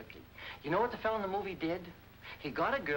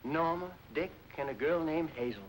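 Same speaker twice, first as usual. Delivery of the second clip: stirring speech. Acted. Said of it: "Dad made a stirring speech".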